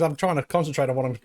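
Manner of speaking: talking through a mouthful of Vegemite; words round a spoonful of food; mouth full. Real, not acted. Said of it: "with a mouthful of Vegemite".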